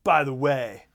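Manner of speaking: mock reveal. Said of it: "Phasma at the very end goes".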